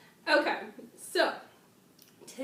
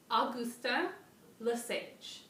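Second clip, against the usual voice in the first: French accent; slower than usual. Shown as a demonstration. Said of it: "I'm gonna try my best French accent".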